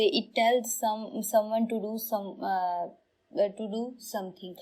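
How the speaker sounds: very slow, careful dictation; halting, slow read of a definition; line read slowly. Shown as a demonstration. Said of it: "इसके आगे भी है एक line".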